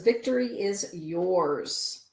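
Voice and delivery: slow, drawn-out pronouncement; oracle card proclamation. Acted. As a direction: deliver the card's message with weight, stretching it out. Announcing an oracle card's message.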